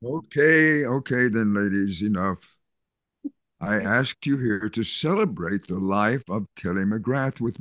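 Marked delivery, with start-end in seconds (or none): 0.0-2.6 louder, raised, to cut them off; okay, okay, that's enough now; firm interruption. Acted. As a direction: pastor firmly stopping the women's bickering. Pastor stops the women's gossip.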